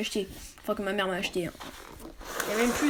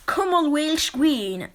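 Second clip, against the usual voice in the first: slow, careful English accent on the dragon's name; 2 semitones higher, slower than usual. Shown as a demonstration. Reading a dragon book to viewers, attempting an English accent. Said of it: "Désolé pour mon accent anglais".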